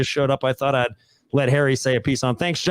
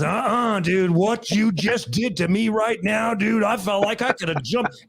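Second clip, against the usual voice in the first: higher-pitched imitation of a shaken coworker; retold amazement; 6 semitones higher than usual. Shaken coworker to the storyteller on a mountain porch, retold amazement. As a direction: act out his amazed protest, pitched up. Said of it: "And he goes".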